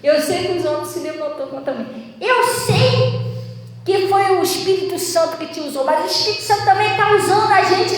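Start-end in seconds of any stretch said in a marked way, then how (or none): 2.2-8.0 imitando o homem que gritou com ela, mais agudo; grito imitado. Retold or imitated. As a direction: repete a acusação dele com voz alta e irritada. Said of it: "gritou comigo". (homem da igreja gritando com a pastora, imitado)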